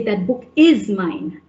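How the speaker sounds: that book IS mine, emphasis on is; stress on IS. Shown as a demonstration. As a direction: lean on the word is in "that book is mine". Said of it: "I want to stress is".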